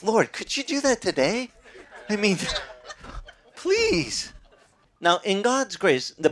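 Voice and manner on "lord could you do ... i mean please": laughing through a mock plea; laughing joke prayer. Real, not acted. Preacher jokingly asking the Lord for snakes, laughing.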